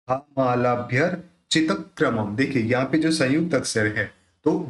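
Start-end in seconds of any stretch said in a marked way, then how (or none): 0.1-2.4 हामालाभ्यर्चितक्रमम with the r tied into "bhyar-chi"; रेफ जोड़ कर. Shown as a demonstration. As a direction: link the r firmly in हामालाभ्यर्चितक्रमम. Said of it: "र के साथ जुड़ेगा". (हामालाभ्यर्चितक्रमम में रेफ जोड़ कर)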